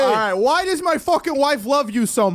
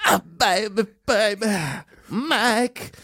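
mock impression of a pop singer; 4 semitones lower, slower than usual. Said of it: "a pop singer".

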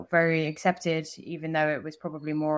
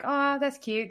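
high-pitched mock coo; 9 semitones higher, slower than usual. Onlookers see two friends holding hands, mock cooing.

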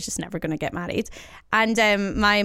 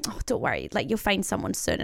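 condescending aunties; 5 dB quieter than usual. Retold or imitated. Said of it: "them being like".

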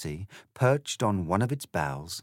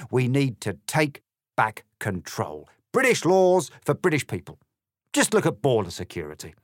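loud, higher, rousing speech; ranting cat politician; 5 semitones higher, 5 dB louder than usual. Acted. The cat giving Alice a rousing anti-EU speech. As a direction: orate like a stump speech at a rally.

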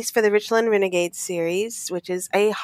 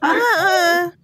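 laughing; 8 semitones higher, much slower than usual. Real, not acted. Giggling while calling out words.

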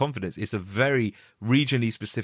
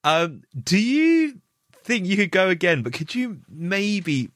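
drawn-out, higher, mock-tentative voice; hesitant coaxing request; 6 semitones higher, slower than usual. Casting team awkwardly asking the actor to go again, hesitant and coaxing. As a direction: imitate someone gingerly asking for a redo. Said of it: "they're like".

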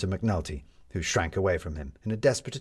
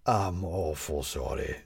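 wheedling; 3 semitones lower, slower than usual. A narrator's reading. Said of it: "said McNulty again".

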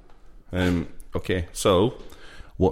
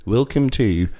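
put-on Colton Palmer Peaky Blinders accent. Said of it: "It's Colton Palmer in Peaky Blinders now".

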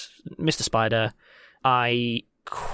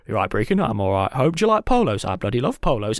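hammed-up Cockney banter between two mates; mock Cockney chat, jumping between voices; bad Cockney accents; 2 semitones lower than usual. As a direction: do a badly faked Cockney double act. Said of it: "all of you with bad Cockney accents".

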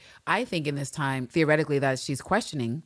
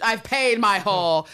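Moulin Rouge quote; 5 semitones higher, 6 dB louder, slower than usual. Retold or imitated. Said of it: "that scene in fucking Moulin Rouge".

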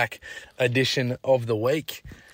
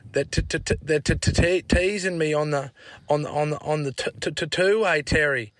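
stammering, a little higher; imitating a stutter; 3 semitones higher than usual. Tommy telling Dad he's teased, stammering. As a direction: stutter through each word. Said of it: "had a stutter".

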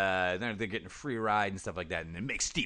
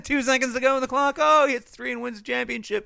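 hyped announcer; 13 semitones higher, 6 dB louder than usual. Retold or imitated. Mock game announcer.

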